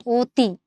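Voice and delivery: অতি as "oti", with a rounded close "o"; closed "o" vowel. Shown as a demonstration. Teacher showing the closed sound, অতি said "oti". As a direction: turn the first vowel of অতি into "o". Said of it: "উচ্চারণটা করি এরকম".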